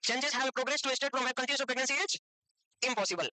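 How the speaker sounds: dictated slowly, a pause before impossible; slow dictation. Shown as a demonstration. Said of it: "लिख लेना definition". (धीमी dictation, impossible से पहले रुककर)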